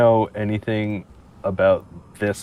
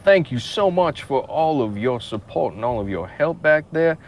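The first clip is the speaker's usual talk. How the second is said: Southern charm; 2 semitones higher, slower than usual. Acted. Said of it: "I like the sound of your southern charm".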